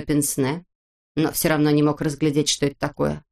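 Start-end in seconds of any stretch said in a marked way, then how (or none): none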